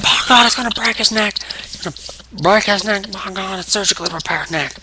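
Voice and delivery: a hint of a panicked commentator; announcer JR. Fantasy booker voicing a worried announcer. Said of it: "J R's like".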